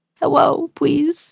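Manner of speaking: put-on kindly, creaky old man. Voicing a friendly old man greeting the group: friendly old man voice. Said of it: "He's just kind of a friendly old guy".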